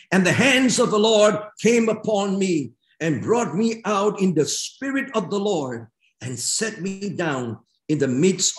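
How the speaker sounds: measured, emphatic Bible reading from the pulpit; scripture reading. Real, not acted. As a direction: proclaim the prophet's words to the congregation. Reads scripture aloud to congregation.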